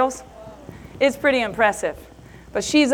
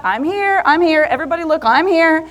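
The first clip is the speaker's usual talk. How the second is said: quick, raised calls waving for attention; excited calling out; 3 semitones higher than usual. Retold or imitated. Mom reaching the stage, calling out eagerly. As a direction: call out to be seen. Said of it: "I go to Scott".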